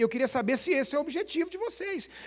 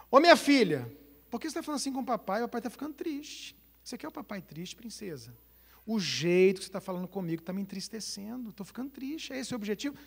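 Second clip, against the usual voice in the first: soft, tender fatherly voice; gentle father; 2 semitones lower, 5 dB quieter, faster than usual. Shown as a demonstration. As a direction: coax the daughter softly. Father speaking gently to daughter. (pai falando com a filha, baixo e carinhoso)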